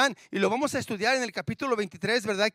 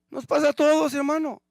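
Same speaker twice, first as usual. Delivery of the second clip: loud preaching; 7 semitones higher, 7 dB louder than usual. Real, not acted. Preacher exclaims to congregation.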